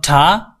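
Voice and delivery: ঠা said the mistaken way; ঠা as a drawn-out wrong example; wrong T sound. Shown as a demonstration. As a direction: model ঠা as the sound to avoid.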